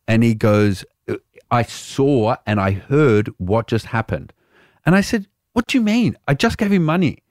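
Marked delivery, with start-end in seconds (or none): 1.1-4.3 low, deliberate imitation of the barman; lightly voiced stern barman; retold accusing barman. 5.5-7.2 high-pitched baffled self-defence; mock-bewildered, high protest; retold innocent protest.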